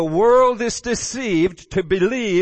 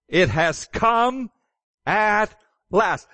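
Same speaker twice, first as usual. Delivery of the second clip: higher, slow proclamation; heavenly voice proclaiming; 4 semitones higher, much slower than usual. Acted. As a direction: announce it slowly like a voice from heaven. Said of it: "Here's the voice".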